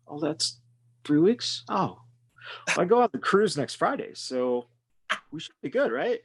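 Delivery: clueless patient voice. Acted. Patient voiced, much higher.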